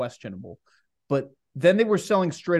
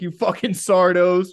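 mock ethnic slur; 4 dB louder than usual. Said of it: "like I'm from Sardinia".

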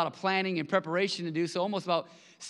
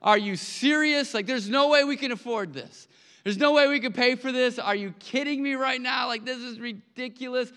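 shocked disbelief; 4 semitones higher than usual. Retold or imitated. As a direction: panic at the size of the bill. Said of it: "I had a heart attack".

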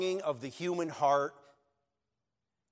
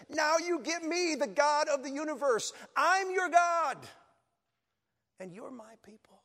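higher, louder, forceful declaration; angry God; 13 semitones higher, 5 dB louder than usual. Retold or imitated. God scolding his people, loud and high. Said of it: "Sometimes he says it angrily".

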